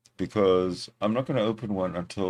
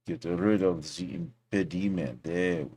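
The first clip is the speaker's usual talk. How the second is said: put-on French accent; 3 semitones lower, 3 dB quieter than usual. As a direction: play at speaking English like a Frenchman. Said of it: "How's my French accent?".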